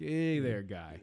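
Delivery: a hint of Maine at the docks; Maine accent. Shown as a demonstration. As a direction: toss it off like a friendly Maine local. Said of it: "all you have to do for the main accent".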